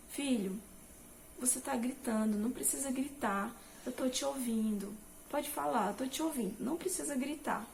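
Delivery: put-on calm the child down softly; gentle, calming. Mother calming her shouting son, soft and reassuring. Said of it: "É agradável ouvir isso".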